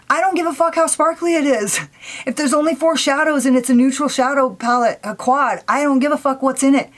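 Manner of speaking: irritated. Real, not acted. Vlogger ranting about a neutral quad launch, irritated. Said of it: "I'm a little bit irritated by it".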